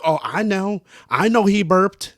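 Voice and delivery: mock Sarah. Quoting Sarah, knowing.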